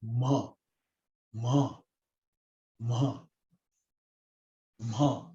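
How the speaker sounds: throaty "ma", each one set apart by a pause; vocal-sound "ma". Shown as a demonstration. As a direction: repeat "ma" as isolated drill sounds, dropping the pitch. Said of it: "pronounce from your vocal cord".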